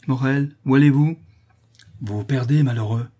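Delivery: pressing and agitated; urgent warning. Acted. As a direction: stop them before disaster. Restraining a furious man.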